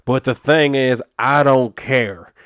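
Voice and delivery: words squeezed out of one side of the mouth; lightly voiced sheriff with chew in his lip, dismissive; tobacco-chewing cop voice. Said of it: "talking like that, 'cause ... sound appears to only be coming out of one side of his damn mouth".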